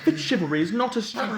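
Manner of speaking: high, rushed protest breaking into laughter; indignant, cracking up. Acted. Villain defends his name to prisoner, breaking into laughter. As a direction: defend it fast until laughter takes over.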